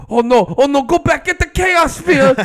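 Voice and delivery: high, loud mock panic; panicking comic villain. Villains seeing their enemy walk out, hammed-up panic. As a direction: cry out like a cartoon henchman in a panic. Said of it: "they're like".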